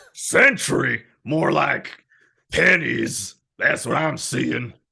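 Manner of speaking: gruff, gravelly, loud, rough demon voice. Asked to insult the other speaker in the Satan voice, the speaker does it. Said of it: "insult me in the Satan voice".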